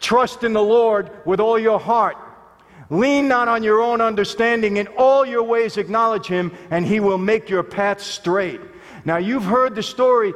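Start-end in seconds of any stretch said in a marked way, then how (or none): 0.0-8.6 solemn scripture recital. Shown as a demonstration. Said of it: "Proverbs chapter three".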